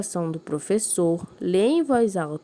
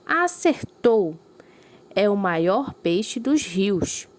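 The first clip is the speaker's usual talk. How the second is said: excited cheer; much slower than usual. Acted. Maiara cheering correct guess.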